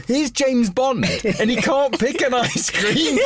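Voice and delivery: very high-pitched mock disbelief; retold incredulity. Server amazed James Bond can't choose an ice cream, mock incredulous. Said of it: "And I'm like".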